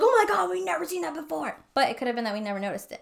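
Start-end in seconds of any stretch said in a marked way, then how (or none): 0.0-1.6 high-pitched mock panic; retold freak-out. Host recalls finding stabbed ceiling, mock freak-out. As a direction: imitate the group panicking, pitched well up. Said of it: "we were, like, freaking the fuck out".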